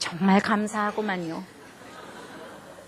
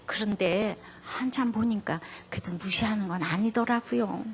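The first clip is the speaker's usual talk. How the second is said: soft, lower and quieter; gentle correction; 3 semitones lower, 9 dB quieter than usual. Retold or imitated. Wife gently correcting her calmed husband, soft. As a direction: ease him round tenderly.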